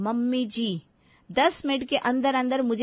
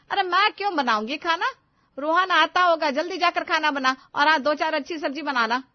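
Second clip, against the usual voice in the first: angry order; 4 semitones higher, 5 dB louder than usual. Acted. Mother-in-law ordering angrily.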